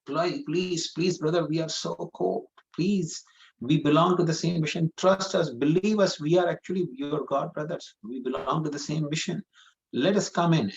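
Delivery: high, urgent begging; desperate pleading. Acted. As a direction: plead as if freezing outside.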